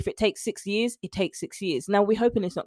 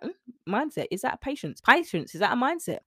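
puzzled client; 5 semitones higher, 3 dB quieter than usual. Retold or imitated.

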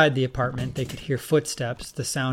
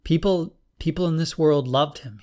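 shaky voice; 4 semitones higher, 4 dB louder than usual. Acted. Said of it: "Junior's voice shook as he answered".

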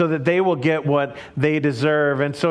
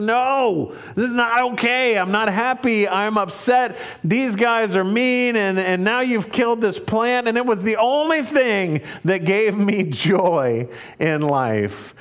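put-on pouting child; 2 semitones higher than usual. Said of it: "Jonah pouts".

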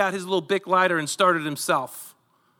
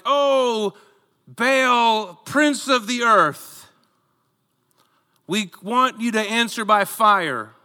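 mock invocation, pitched up and drawn out; calling on Baal; 4 semitones higher, slower than usual. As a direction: act out prophets calling to their god. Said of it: "they start to call out".

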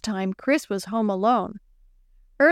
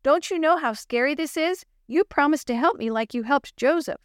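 pleading out loud; 6 semitones higher than usual. Acted. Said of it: "Chris cried out loud".

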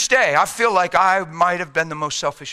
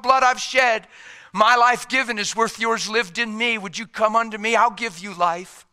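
high-pitched, heartfelt pleading; impassioned voice of a loving savior; earnest assurance; 6 semitones higher than usual. Acted. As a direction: assure them of their worth, voice raised in pitch. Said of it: "The cross is saying".

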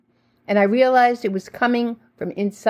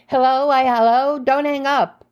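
stammering; 5 semitones higher than usual. Retold or imitated. She stammers into the phone to her estranged sister, flustered. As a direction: stammer it out, caught off guard by the call. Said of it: "I stammered".

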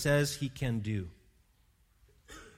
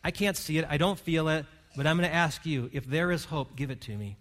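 sample prayer. Pretend. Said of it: "open up your heart today and say".

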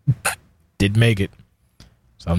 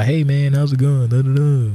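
higher and louder, bubbly friendly chatter; chatty drunk greeting; 8 semitones higher, 3 dB louder than usual. Retold or imitated. Tipsy self greeting people at a party, bubbly and loud. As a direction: gush at everyone like the life of the party. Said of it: "I become real, like, a social butterfly".

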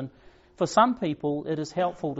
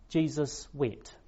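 quiet, slow, solemn "Jesus wept" with each word laid down gently; hushed reading; 5 dB quieter, slower than usual. Shown as a demonstration. Preacher reading the verse to the congregation, hushed and slow. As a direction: let "Jesus wept" fall softly and slowly. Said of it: "two short words recorded".

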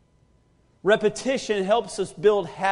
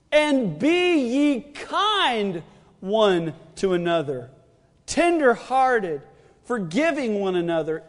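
scripture reading. Real, not acted. Reads scripture aloud slowly.

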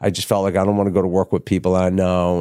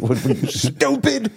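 agent's scolding; 5 semitones higher than usual. Retold or imitated. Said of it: "She's like".

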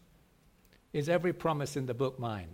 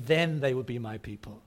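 "Then" punched at the start, the rest falling; stress on THEN; 3 semitones lower than usual. Acted. Preacher voicing God's promise, stress on "Then". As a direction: lean on "Then", as a consequence. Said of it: "It's almost him saying".

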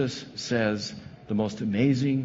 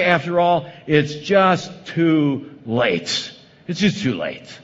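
resigned complaint; 2 semitones higher than usual. Acted. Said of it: "We say".

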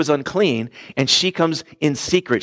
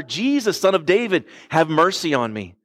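more insistent mock yell. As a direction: imitate a blind beggar calling out insistently. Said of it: "he starts yelling all the louder".

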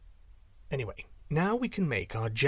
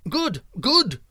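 higher, louder cheer; birds approving; 9 semitones higher, 7 dB louder than usual. A narrator's reading. Birds agreeing with the owl, high happy cry. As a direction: cheer the owl's ruling. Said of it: "cried the other birds".

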